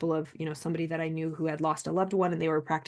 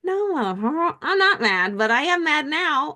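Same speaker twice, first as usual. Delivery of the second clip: laughing mock anger; 9 semitones higher, 4 dB louder, slower than usual.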